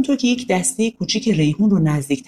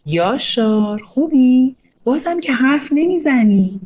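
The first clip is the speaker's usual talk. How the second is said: put-on higher, slow, smiling child voice on the phone; smiling boy; 6 semitones higher, slower than usual. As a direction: grin through a teasing phone greeting. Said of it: "آریا با لبخند گفت".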